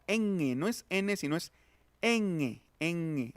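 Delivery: a long humming ñ made at the back of the tongue; velar nasal. Shown as a demonstration. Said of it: "Es la ñ de mango". (ñ velar sostenida)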